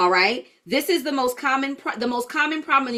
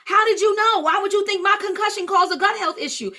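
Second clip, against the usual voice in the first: surprised client; 7 semitones higher than usual. Retold or imitated. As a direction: play the stunned client who can't believe you guessed. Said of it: "they go".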